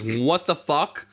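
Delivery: slow, blunt what-the-fuck; blunt shocked reaction. Retold or imitated. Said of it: "your first reaction is".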